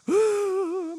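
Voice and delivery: high, drawn-out mock sob; imitated wail. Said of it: "울기 시작하는 거예요".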